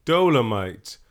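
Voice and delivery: loud, slow, drawn-out hype; hype announcer. Pretend. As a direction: announce it like a movie trailer. Hyped intro of the episode's movie.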